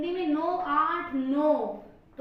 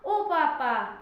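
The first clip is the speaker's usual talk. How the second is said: short, louder mock cry of ओ पापा; slapped child's cry; 5 dB louder, much slower than usual. Kid slapped by mum calls for papa, quick mock cry. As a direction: snap it out like a quick yelp. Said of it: "तो मुंह से निकला".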